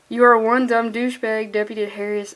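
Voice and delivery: grinning through the line; a hint of a smile in the voice; fighting back a grin while reading; smiling. Real, not acted. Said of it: "I'm just, like, smiling".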